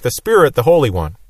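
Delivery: emphasize Spirit, then add the Holy One; stress on Spirit. Shown as a demonstration. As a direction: raise SPIRIT, let the rest fall away. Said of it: "the one you wanted to emphasize".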